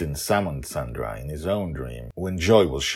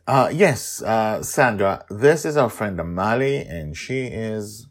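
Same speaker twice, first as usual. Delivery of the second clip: higher, louder, halting introduction; hesitant Susie; 6 semitones higher, 7 dB louder than usual. Acted. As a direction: stumble into taking the lead. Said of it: "Susie hesitates".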